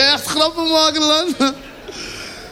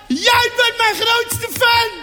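overenthousiaste fan; 10 semitones higher, much slower than usual. Acted. Excited fan, slow high.

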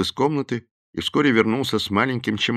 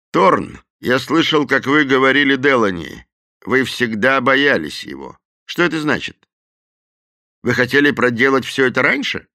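higher, pointed questioning; Madden, lightly voiced; 6 semitones higher, 5 dB louder than usual. A narrator's reading. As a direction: press Thorn for the truth.

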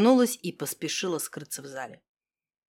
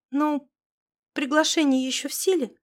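cautious; 7 semitones higher than usual. Acted. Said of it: "осторожно спросила Алёна".

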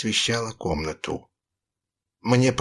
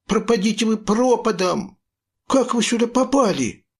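angry outburst; 9 semitones higher than usual. A narrator's reading. Boy shouts at the pirates to get lost, angry and high. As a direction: drive the pirates off with fury.

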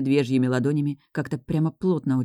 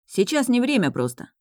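tender; 9 semitones higher than usual. A narrator's reading. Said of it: "ласково продолжил Лис".

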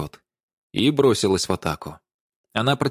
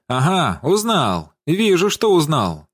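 drawn-out, higher gotcha tone; triumphant accusation; 6 semitones higher, 3 dB louder, slower than usual. A narrator's reading. Даша catches Владимир recognizing the body, triumphant accusation. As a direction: stretch it out, knowingly accusing. Dasha taunts him on recognition.

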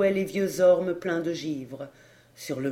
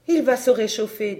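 higher, louder urgent comfort; anxious reassurance; 6 semitones higher, 6 dB louder than usual. Acted. Grandmother insisting the child will warm, loud and high. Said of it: "dit Sorley".

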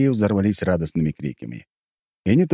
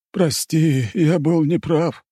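father voice; 8 semitones higher, slower than usual. Acted. Father apologizes to daughter.

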